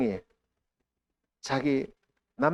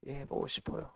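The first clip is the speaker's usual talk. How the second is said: meek soft reply; 12 dB quieter than usual. Retold or imitated. Pastor answers the Lord again.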